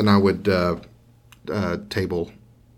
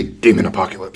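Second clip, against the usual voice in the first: mock repeat of friend. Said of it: "that's always your answer".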